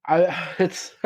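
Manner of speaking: real chuckle breaking into the words; amused, apologize through a laugh. Real, not acted. Host amused at esports teams in the Olympics, laughing. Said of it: "I'm laughing because it's kinda funny".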